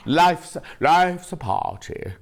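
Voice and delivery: slow, drawn-out posh imitation; lightly posh, slow catchphrase. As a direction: savour it like a posh presenter. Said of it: "it's very posh".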